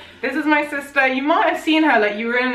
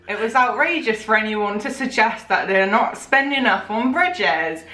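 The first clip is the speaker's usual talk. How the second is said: put-on West Country farmer accent; Gloucester farmer accent. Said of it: "like Gloucester".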